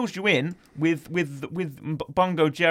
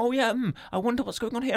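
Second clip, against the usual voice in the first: musing cat voice; 7 semitones higher, 3 dB quieter, faster than usual. Retold or imitated. Voicing a cat in the film.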